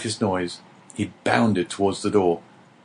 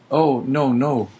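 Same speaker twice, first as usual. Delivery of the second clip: higher, eager protest; eager cry; 4 semitones higher, slower than usual. A narrator's reading. Dante cries out against being called a traitor, eager. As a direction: cry out to deny it at once. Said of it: "cried Dante".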